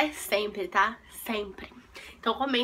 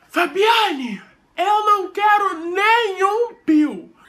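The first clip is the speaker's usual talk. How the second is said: louder, higher mother yelling a warning; mom shouting; 4 semitones higher, 6 dB louder, much slower than usual. Retold or imitated. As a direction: shout the name then the rule like an angry mom. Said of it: "Aí sua mãe fala".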